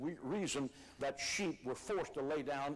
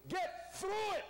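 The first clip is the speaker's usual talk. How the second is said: "through" punched out high and forceful; stress on THROUGH; 13 semitones higher than usual. Real, not acted. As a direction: hit "through" hard, like a shouted command. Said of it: "I emphasize the word through".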